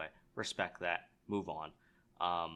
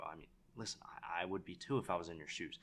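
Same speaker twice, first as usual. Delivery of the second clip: hushed calming; 4 semitones lower, 6 dB quieter than usual. Shown as a demonstration. Calming an angry seller.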